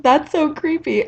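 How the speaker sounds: amused, smiling repeat; smiling tease. Retold or imitated. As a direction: tease her with a grin. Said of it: "with this smile on his face".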